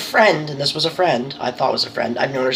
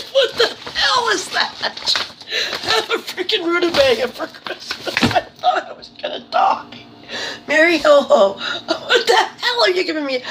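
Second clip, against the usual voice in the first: words squeezed out through high helpless laughter; incredulous, cracking up at the gift; laughing while talking; 12 semitones higher than usual. Real, not acted. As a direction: talk through a real laughing fit.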